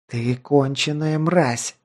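slow, soft venomous hiss. Acted. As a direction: hiss it slowly with hatred. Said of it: "злобно прошипела она".

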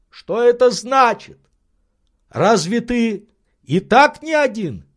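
high, loud, puzzled questions; puzzled Legrand. Acted. Legrand puzzled by his servant's words, high. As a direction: demand an explanation.

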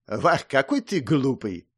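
slow, patronizing "вах"; a touch of slow, lordly condescension; condescending. A narrator's reading. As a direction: talk down to a silly friend. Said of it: "снисходительно сказал я".

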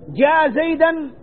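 جاء زيدا drawn out as a mock error; wrong example. Shown as a demonstration. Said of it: "حرام، ما يجوز".

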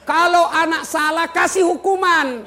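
high, loud exhortation; full-force preaching. Real, not acted. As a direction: drive the lesson home to the crowd.

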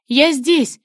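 loud answering shout; loud reply across the woods; shouting back. A narrator's reading. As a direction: call back so he can find you. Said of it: "крикнула в ответ".

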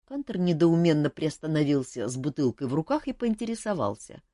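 plain reading voice

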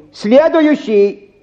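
long high call, very slow. Acted. Clerk summons the next patient, long high drawn call. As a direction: drag the word out across the room.

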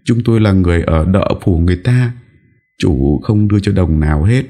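high, pleading mother's voice; tearful high-pitched entreaty; desperate begging. Acted. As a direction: plead as if your child's life hangs on it. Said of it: "Người mẹ vội vã van nài".

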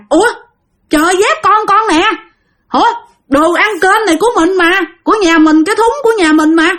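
high, startled recognition of the lost items; a worried father spotting his daughter's sandal; surprised uncle. Retold or imitated. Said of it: "chú Tuấn mới nói rằng".

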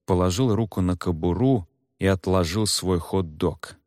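plain reading voice

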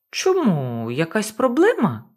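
a hint of a stoned, sluggish voice; lightly voiced slow stoner; sluggish reggae singer. Bobby answering the panicking boss, a touch sluggish. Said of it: "в'яло мовив він голосом відомого співака".

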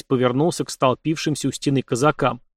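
ordinary delivery, nothing marked

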